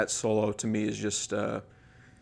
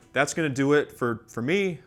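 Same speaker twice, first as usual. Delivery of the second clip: slightly winded, catching breath; 4 semitones higher, 3 dB louder than usual. Real, not acted. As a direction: talk while still short of breath. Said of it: "I'm out of breath here".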